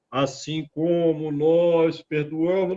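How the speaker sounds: a grudging, half-meant promise; reluctant. Shown as a demonstration. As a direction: mumble the forgiving half without conviction. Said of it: "a entonação é outra".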